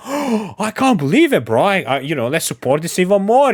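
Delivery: mock the thrill over a few likes; mock excited creator. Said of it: "is like".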